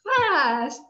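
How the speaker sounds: "Fast" given a firm fall; model word fast. Shown as a demonstration. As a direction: punch "Fast" firmly. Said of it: "Can you do it like this and say fast?".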